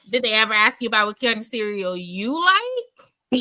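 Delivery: lightly voiced deadpan commenter, falling end; Seahorse voice. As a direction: read it flat and pointed like a commenter. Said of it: "read it in Seahorse voice".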